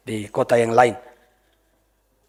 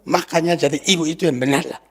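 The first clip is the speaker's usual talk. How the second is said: mock scolding pastor. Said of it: "Apa begitu?".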